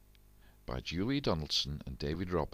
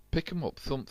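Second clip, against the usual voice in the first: high commands; 9 semitones higher than usual. A narrator's reading. Jack rallying drums.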